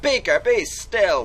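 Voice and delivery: a loud, slow bellow; mild roar. A narrator's reading. Owner shouts at his yapping dog, mild roar. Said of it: "with a roar".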